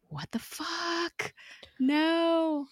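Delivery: very high, drawn-out, hushed wail of disbelief; dismayed squeal. Acted. Reacting to Skye being shot, high drawn-out dismay. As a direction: stretch each cry out thin and high.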